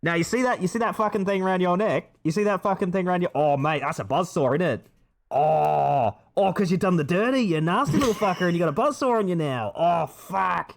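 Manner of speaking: put-on Jigsaw rambling in an Australian accent. Streamer voicing Jigsaw to a detective, in an Australian accent. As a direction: swear like an Aussie bloke. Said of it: "Australian Jigsaw, you're so mean".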